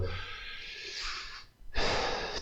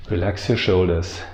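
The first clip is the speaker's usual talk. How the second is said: guided meditation; 4 semitones lower, 6 dB quieter than usual. Real, not acted. Teacher settling viewers before the meditation starts, calm guiding voice. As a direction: ease them into stillness, quietly and unhurried.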